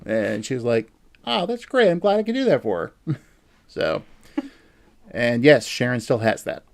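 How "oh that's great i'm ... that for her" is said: high, gushing imitation; retold delighted reply. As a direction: imitate her pleased reaction, pitched well up.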